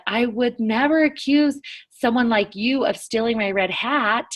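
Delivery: mildly mocking, leaning on "you"; a little sarcastic. Teacher reads a smirking line to show tone, a little sarcastic. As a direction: say it with a touch of sarcasm. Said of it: "A little bit sarcastic".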